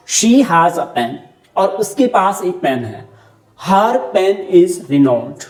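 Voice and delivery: every word drawn out, very slowly; very slow example. Shown as a demonstration. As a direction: read the model sentence slowly for the class. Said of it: "मैंने कहा this is Rani".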